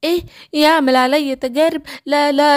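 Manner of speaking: the lion cub startled and alarmed; scared lion cub. Acted. Simba panics at threat. (شبل خايف ومفزوع شوية)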